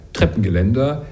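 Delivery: „Treppengeländer“ with Trep accented and the rest mumbled; stress on Treppe. Shown as a demonstration. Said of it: "die erste Silbe Treppe". (Betonung auf „Treppe“ in „Treppengeländer“)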